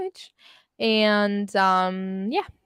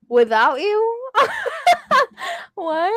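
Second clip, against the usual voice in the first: high, loud, slow question tipping into laughter; incredulous laughing; 11 semitones higher, 4 dB louder, slower than usual. Real, not acted. Streamer repeating a baffling line from chat, incredulous. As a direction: echo it back in laughing disbelief. Baffled by words just read out.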